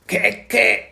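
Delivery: put-on high, loud baby-dragon chirp; little dragon voice. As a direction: parrot the word like a tiny dragon. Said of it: "sagte Spekulatius". (hohe Babydrachenstimme)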